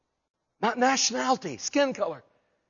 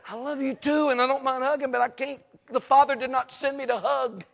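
higher-pitched, mildly exasperated pleading; mock exasperation; 4 semitones higher than usual. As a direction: play at setting a clingy friend straight. Jesus voiced, fed up with hugs.

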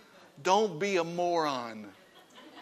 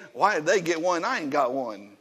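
jealous grumble. Pretend. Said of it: "But if you say".

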